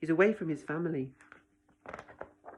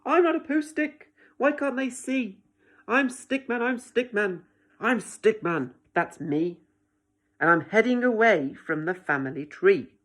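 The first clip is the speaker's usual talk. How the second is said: high, loud frustrated protest; upset Stickman; 4 semitones higher, 5 dB louder than usual. Acted. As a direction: plead to be seen.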